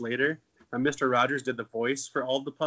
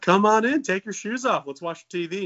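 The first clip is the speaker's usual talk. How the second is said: overly friendly host; 7 semitones higher, 6 dB louder than usual. Retold or imitated. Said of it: "I'm like".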